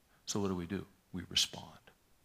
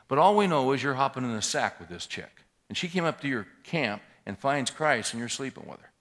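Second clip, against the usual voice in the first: louder, sarcastic, pressing each point; heated retold rebuke; 3 semitones higher, 5 dB louder than usual. Pastor confronting the cocky older minister, raised and sarcastic. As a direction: jab at him line by line, voice raised.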